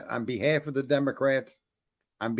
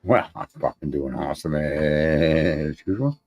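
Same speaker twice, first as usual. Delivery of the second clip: smug boast; 8 semitones lower, 4 dB louder, slower than usual. Acted. Smug reply to host.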